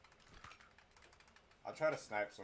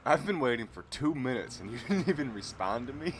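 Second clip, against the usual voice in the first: higher, louder mock indignant complaint, breaking into a laugh; imitating angry viewer; 6 semitones higher, 9 dB louder than usual. Streamer quoting a rude Twitch viewer, mock outraged. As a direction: ham up a whiny troll's outrage. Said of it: "the first thing he said was".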